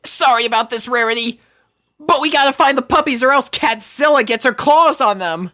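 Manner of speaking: high, loud, hurried apology; rushed Rainbow. Acted. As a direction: rattle it off while searching. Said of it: "rushed her words".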